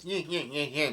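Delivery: nyeh-nyeh chuckle; imitated villain cackle. Retelling Brulé gloating over one capture, mock villain cackle. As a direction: mimic a gloating cartoon snicker.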